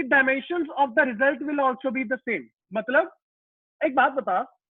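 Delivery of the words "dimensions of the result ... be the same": words drawn out for students to write; slow dictation. Shown as a demonstration. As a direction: dictate it slowly. Teacher dictating second rule.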